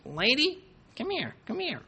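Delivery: high squawky parrot taunt; lightly voiced parrot jeering at her; mock parrot insult. Parrot calls lady over.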